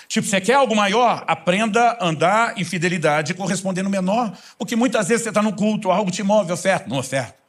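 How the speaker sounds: full-force pulpit preaching; fiery preaching. Acted. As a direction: drive it home to the congregation.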